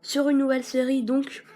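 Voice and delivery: slight lisp from a broken tooth; lisping on the s sounds. Real, not acted. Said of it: "peut-être que je zozote un tout petit peu".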